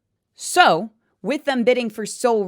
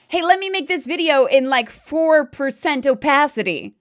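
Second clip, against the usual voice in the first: mocking; 4 semitones higher, 5 dB louder than usual. Mocking an imagined creator's thinking.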